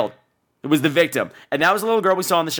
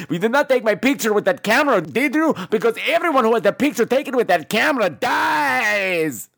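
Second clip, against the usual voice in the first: put-on Spanish accent; 2 semitones higher than usual. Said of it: "why he's Spanish now".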